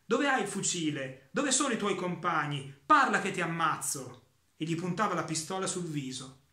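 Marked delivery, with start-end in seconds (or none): 0.0-4.2 loud, threatening interrogation; officer shouting threats with a pistol raised; angry shouting. Acted. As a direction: bark the questions at the dying man. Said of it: "Gli gridava il tenente".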